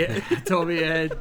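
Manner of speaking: laughing through the words. Real, not acted. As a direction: let a laugh break into the words. Repeats joke laughing.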